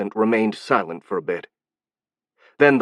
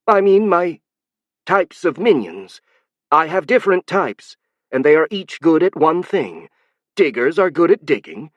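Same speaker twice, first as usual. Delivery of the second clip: high Hive Queen voice; 7 semitones higher, 4 dB louder than usual. Acted. Hive Queen explaining, flustered.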